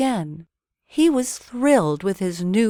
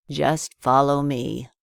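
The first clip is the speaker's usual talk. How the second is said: put-on old man voice; 4 semitones lower, 3 dB louder than usual.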